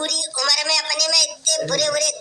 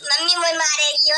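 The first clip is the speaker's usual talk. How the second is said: put-on wailing child. Child wailing over lost books.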